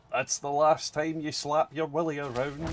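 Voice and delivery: lightly put-on exaggerated Scottish character voice; Groundskeeper Willie. Streamer answering the comparison with a line, lightly mimicking. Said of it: "my voice is not Groundskeeper Willie".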